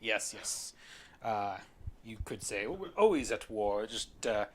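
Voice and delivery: airy, halting British gentleman; eccentric British gentleman. Acted. British gentleman concedes his country's endless wars, airily halting. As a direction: explain offhand with an affected British accent.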